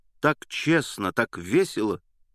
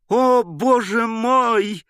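much higher, louder, slow drawn-out cry of joy; ecstatic cry; 13 semitones higher, 6 dB louder, much slower than usual. A narrator's reading. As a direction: burst out in delight. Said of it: "вскрикнул он в восторге".

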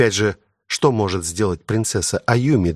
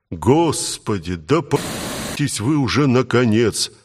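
slow drowsy grumble while yawning; yawning, weary and slow; sleepy melancholy; 2 semitones higher, slower than usual. Acted. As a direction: drag it out half asleep and fed up. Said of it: "меланхолично произнёс моб".

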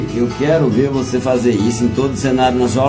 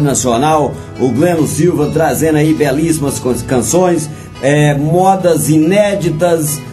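energetic greeting easing into a lower presenting voice; radio host introduction; 3 semitones lower, slower than usual. Acted. Host presents the guest singer to radio listeners, presenter voice. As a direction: open the show like a radio presenter.

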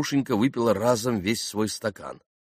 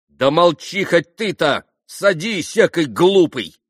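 high, loud, vexed rebuke; spiteful snapping; 10 semitones higher, 9 dB louder, slower than usual. A narrator's reading. Grushenka rebuking Mitya, snapping with angry vexation. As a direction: snap at him in annoyance. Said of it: "Со злобною досадой огрызнулась".

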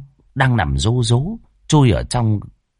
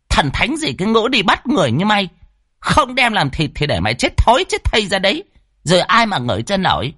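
high, bossy witch-woman barking orders; high brash sorceress commanding; fierce old woman; 10 semitones higher than usual. Acted. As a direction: voice the hot-tempered sorceress, much higher. Lan scolds the demon.

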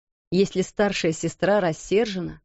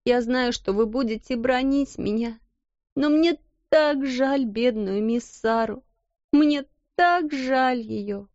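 tearful plea; 4 semitones higher than usual. Acted. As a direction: beg through tears. Becky weeping for Sara.

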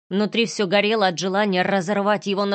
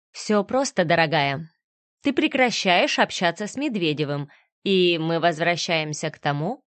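understated sneering menace; villain dictating terms to his ex, lightly sneering; lightly voiced cold villain; 2 semitones lower than usual. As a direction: purr the threat calmly. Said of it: "криво улыбнулся".

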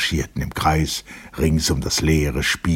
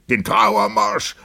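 drawn-out call, moderately raised; echoed call; 5 semitones higher, slower than usual. A narrator's reading. Several guests repeat the demand for music, echoed call. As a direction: echo the demand, less intensely. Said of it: "wiederholten mehrere".

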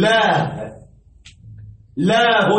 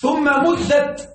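ثم مدت said slowly, مدت stretched; slow emphasis; 4 semitones higher, much slower than usual. Shown as a demonstration. Teacher explaining the lengthened vowel to students, said slowly. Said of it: "مدت فتحة اللام".

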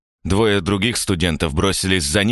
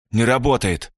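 breathed out in disbelief; villain's stunned, breathy dismay; exhaled; 4 semitones higher than usual. A narrator's reading. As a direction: let it out on a breath. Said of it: "выдохнул он".

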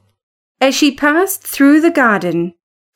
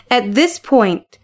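usual speaking voice

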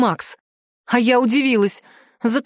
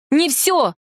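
higher, instant protest; quick exclamation; 5 semitones higher than usual. Acted. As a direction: cut in fast with a protest. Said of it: "тут же воскликнула я". (героиня перебивает жреца, восклицая)

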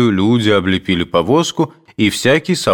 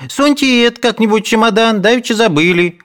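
higher, pleading maid voice; another maid; 12 semitones higher than usual. A narrator's reading. Second maid hands up brush, higher voice. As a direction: push it in with a raised voice. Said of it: "говорила другая".

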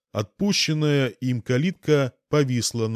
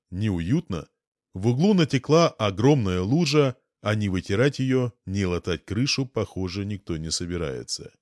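ordinary delivery

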